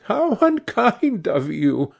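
high, drawn-out playful reproach; a touch of amused girlish teasing; laughing reproach. A narrator's reading.

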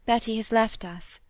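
a hint of sadness, understated; mild regret in a lightly voiced girl; sadly. Molly telling Roger of Betty's leaving, mildly sad. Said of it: "said Molly sadly".

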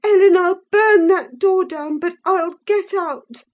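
put-on high, loud determined girl; defiant threat. A narrator's reading. Catherine defiantly telling Ellen she'll burn the door. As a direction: vow to get out.

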